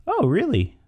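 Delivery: high-pitched startled reaction; shocked. Shown as a demonstration. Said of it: "it kinda shocks the person".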